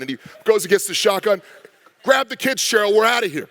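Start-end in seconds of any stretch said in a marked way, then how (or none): 2.0-3.5 higher-pitched mock-urgent dad; hammed-up order to evacuate the family; alarmed dad. Dad to his wife fleeing a monster, alarmed. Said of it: "and dad goes".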